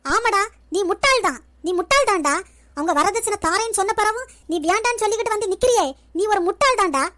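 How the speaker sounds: angry scolding. Acted. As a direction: scold him as a fool. Mother calls son a fool.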